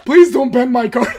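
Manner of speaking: laughing mock plea. At his locals, begging the opponent in laughing mock panic. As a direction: beg him to spare the card, laughing. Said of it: "I was like".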